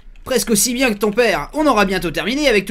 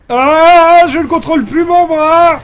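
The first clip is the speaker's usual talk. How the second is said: mock panic; 9 semitones higher, 11 dB louder, slower than usual. Arm out of control, mock panic.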